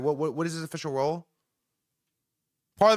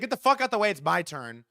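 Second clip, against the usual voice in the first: mock brush-off; 3 semitones higher than usual. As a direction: wave him off with a yell. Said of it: "He said".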